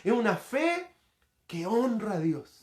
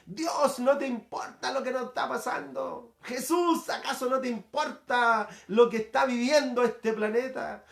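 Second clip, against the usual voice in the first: grito imitado; 3 semitones higher than usual. Retold or imitated. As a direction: plead upward as a protesting crowd, without yelling. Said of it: "el grito de la sociedad actual". (clamor agudo imitado, sin gritar)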